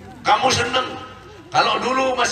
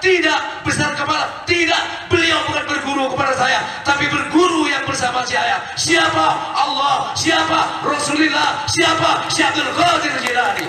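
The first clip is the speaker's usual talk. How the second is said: raised, ringing calls of "Siapa?" answered at once; fiery preaching; 3 semitones higher than usual. Real, not acted. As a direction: rouse the congregation with rapid call and answer. Call and response with congregation.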